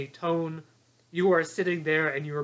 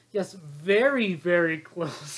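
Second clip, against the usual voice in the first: malicious; much slower than usual. Retold or imitated. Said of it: "it's so malicious the way he's like".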